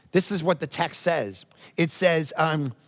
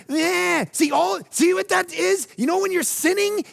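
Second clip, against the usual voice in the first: excited shout; 13 semitones higher than usual. Real, not acted. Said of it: "excited preaching cry".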